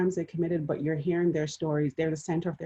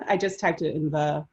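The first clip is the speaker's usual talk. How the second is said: laughing. Real, not acted. Laughs at own joke.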